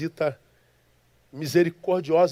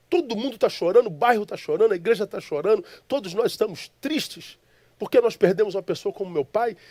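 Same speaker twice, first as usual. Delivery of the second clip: higher-pitched, indignant protest; retold indignation; 4 semitones higher than usual. Grieving son rebukes the smiling stranger in his dream, indignant. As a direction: protest as if wronged, voice raised in pitch. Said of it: "fico com raiva porque ele tá sorrindo".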